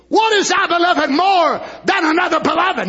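emphatic repeat. Shown as a demonstration. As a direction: drive the question home. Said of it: "Notice they emphasize it twice".

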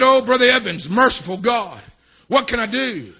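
loud, mock anguished cry for help; wailed plea in a preacher's retelling; retold desperate plea. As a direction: plead it loudly, acting out the man's distress.

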